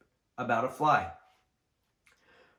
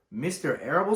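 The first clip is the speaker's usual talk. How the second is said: a touch of a sob, higher; sobbed; 5 semitones higher, 5 dB louder than usual. Acted. Wilbur sobbing at the sheep's news. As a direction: sob out the name in disbelief. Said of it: "sobbed Wilbur".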